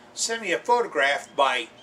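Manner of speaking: slow and deliberate, word by word; said real slow. Shown as a demonstration. Host telling viewers how to send photos, slowly. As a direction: spell it out slowly for the slow ones. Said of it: "I gotta say it real slow".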